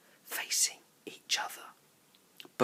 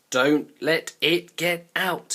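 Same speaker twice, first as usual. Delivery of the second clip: urgent call; 5 semitones higher, 8 dB louder, slower than usual. A narrator's reading. Indian boy urges others.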